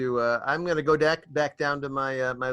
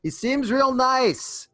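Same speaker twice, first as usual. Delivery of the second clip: higher, slow sarcastic remark; 11 semitones higher, 4 dB louder, slower than usual. Acted. Druid mocking the bossy pony, slow and sarcastic. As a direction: say it dripping with irony. Sarcastic aside after laughing.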